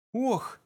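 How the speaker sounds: short, high-pitched "oh"; escaped gasp. A narrator's reading. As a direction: let slip a startled oh. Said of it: "вырвалось у Триллиан".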